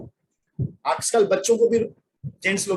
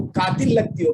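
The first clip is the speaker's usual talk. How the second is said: playful compliment. Shown as a demonstration. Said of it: "कैसा हो".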